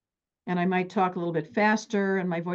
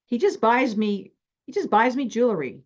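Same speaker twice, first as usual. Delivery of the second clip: imitated complaint; 4 semitones higher, 4 dB louder than usual. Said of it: "She goes like this. Look at the face".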